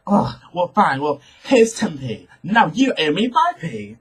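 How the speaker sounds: exasperated mock giving-in; grudging bus driver. Bus driver finally gives the customer change, imitated exasperation. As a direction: imitate a worked-up driver grudgingly handing it over.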